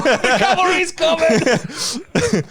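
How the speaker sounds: slow heroic granddad. Retold or imitated. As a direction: drag it out like a doddering hero. Mate voices granddad on stair lift.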